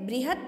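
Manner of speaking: "बृहत्" with a light bare t; halant ending. Shown as a demonstration. Teacher gives the same kind of example, half letter lightly sounded. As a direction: end "बृहत्" on t with little pressure. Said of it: "pressure भी कम लगाना है इस word पे".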